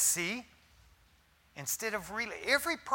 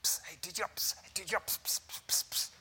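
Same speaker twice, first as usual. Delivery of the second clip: mock gossiping whisper with hissing pss; 8 dB quieter, faster than usual. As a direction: hiss it like passing a secret. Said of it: "going to someone else in criticism".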